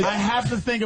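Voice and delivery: amused, laughing repeat. Real, not acted. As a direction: repeat it through a chuckle. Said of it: "repeats it laughing".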